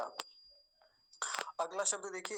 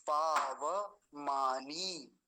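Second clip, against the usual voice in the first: पावमानी whispered very slowly, full व; whispered pronunciation; 2 semitones lower, much slower than usual. Shown as a demonstration. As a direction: breathe out पावमानी syllable by syllable. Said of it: "वकार को पूरा ही रखेंगे हम".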